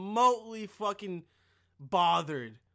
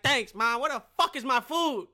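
mock demanding son; 5 semitones higher, 7 dB louder than usual. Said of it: "I'm like".

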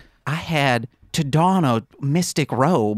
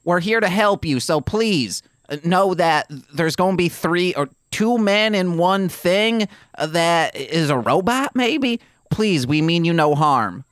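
raised mock shout to the animals; calling out; 3 semitones higher, slower than usual. Shouting to the animals in the stable, raised and reassuring. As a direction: call out to the stable, pitched up. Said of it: "I scream".

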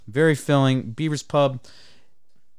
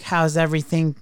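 higher, sing-song waitress; chirpy server check-in; 4 semitones higher than usual. Retold or imitated. Mocking waitress asking too soon, chirpy.

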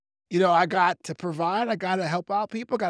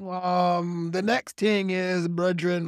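fumbling onstage; much slower than usual. Pretend. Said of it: "I can't go on stage and be like".

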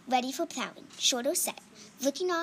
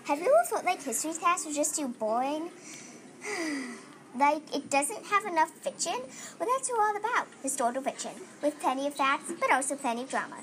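commercial pitch; 2 semitones higher, faster than usual. Pretend. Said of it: "making up a commercial for their topic".

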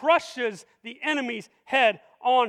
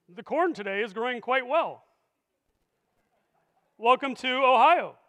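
mock news anchor. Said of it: "Like the evening news".

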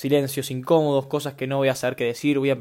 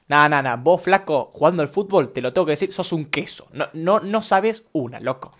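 mock scolding; 2 semitones higher, 4 dB louder than usual. Shown as a demonstration. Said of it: "suena como un insulto".

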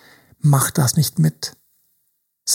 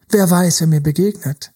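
ordinary talk, nothing marked

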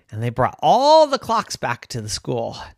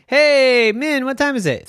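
lightly voiced asker; 11 semitones higher, 6 dB louder than usual. Asker calls to Min.

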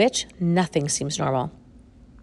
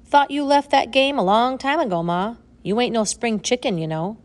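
gruff but friendly man; 6 semitones higher, 4 dB louder than usual. A narrator's reading. Ambrose voiced.

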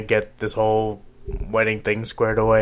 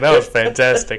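excited; 11 semitones higher, 3 dB louder than usual. Real, not acted. Excited praise.

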